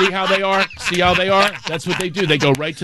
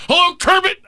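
angry hello; 11 semitones higher than usual. Retold or imitated. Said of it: "He's all angry".

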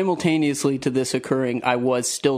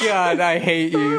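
laughing exasperation; slower than usual. Real, not acted. Embarrassed amid friends' laughter.

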